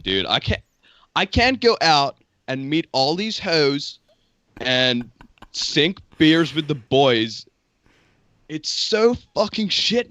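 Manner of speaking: put-on American bro, drawn-out key words; Chad American accent. Shown as a demonstration. Bro griping about lockdown to a mate, Chad American accent. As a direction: play an absolute Chad, an American party bro complaining. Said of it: "going for the Chad accent".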